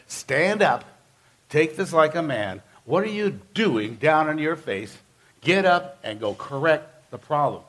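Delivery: stern rebuke. Retold or imitated. God rebukes Joshua.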